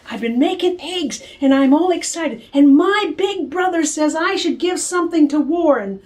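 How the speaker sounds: a touch of excited chatter, high; excited girl. Acted. Girl calling her friend Becky, mildly excited. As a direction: gush into the phone.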